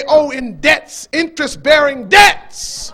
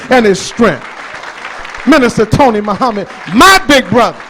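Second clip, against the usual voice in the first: louder, rallying the crowd; calling for applause; 2 semitones lower, 5 dB louder than usual. Real, not acted. Preacher calling the crowd to applaud Minister Tony, loud. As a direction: rouse the hall for the minister.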